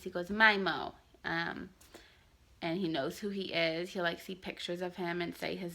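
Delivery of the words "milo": put-on Mimo said the baby way for Milo, with M in place of L; toddler mispronunciation. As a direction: say Mimo as a toddler says his own name. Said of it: "He goes like this".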